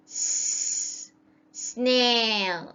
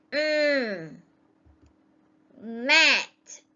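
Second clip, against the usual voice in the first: phonics teacher chanting letter sounds; sounding out words; much slower than usual. Shown as a demonstration. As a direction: model each sound for kids to repeat. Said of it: "Let's sound out the letter".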